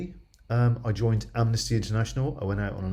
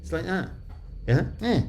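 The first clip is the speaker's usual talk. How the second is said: West Country accent. Shown as a demonstration. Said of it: "that talk like this".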